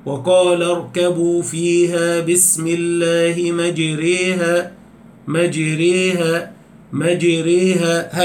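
slow recitation with مجريها leaned toward kasra; imala recitation. Shown as a demonstration. Teacher showing Hafs's imala in مجريها, slow recitation. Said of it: "هكذا".

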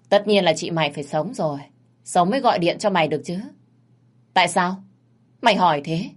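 rushed, brisk big-sister retort; hurried asking. Acted. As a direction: rattle it off impatiently. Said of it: "cô gấp gáp hỏi lại".

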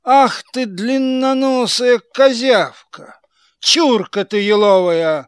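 furious puppet master yelling; angry shout. Acted. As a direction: roar at the puppet. Karabas scolding Buratino.

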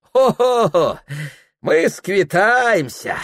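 high mocking laugh, then slow drawn threat; spiteful glee. A narrator's reading. Anfisa to her rival's mistress, gleeful threat. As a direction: gloat merrily but with malice. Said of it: "задорно весело и в то же время злобно протянула".

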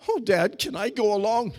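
lightly voiced eager son. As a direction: beg to tag along, eager. Eager son voiced in mock dialogue.

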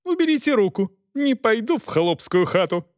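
high, haughty lady's voice; haughty refusal. A narrator's reading. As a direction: refuse with disdain. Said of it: "взвизгнула Элеонора Августа".

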